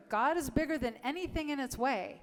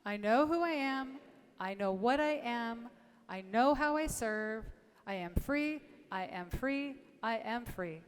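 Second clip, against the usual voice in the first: affirmation recited aloud. Shown as a demonstration. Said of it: "Let's say it again one more time".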